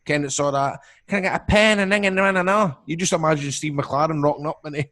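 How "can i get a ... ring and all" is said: high, broad mock Dundee accent; imitated Dundee accent. Mock Dundee accent aping a YouTuber. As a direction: put on a hammed-up Dundee accent, higher. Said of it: "he goes through all the Dundee accents".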